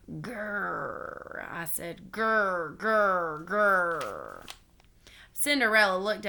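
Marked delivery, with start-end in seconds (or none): 0.1-1.5 soft drawn-out growl; quiet, mock-menacing grrr; scary clown growl. A narrator's reading. Child clown making a scary face at two girls, soft growl. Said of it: "I made a scary clown face". 2.1-4.5 repeated mock-menacing growls; scary clown growl. A narrator's reading. Child clown trying to scare two girls, growling. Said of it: "I made a scary clown face".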